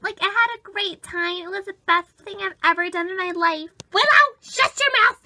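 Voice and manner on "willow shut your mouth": higher, louder scolding; irritated outburst. Acted. Becky silencing guest at sleepover, irritated raised voice. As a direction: cut them off crossly.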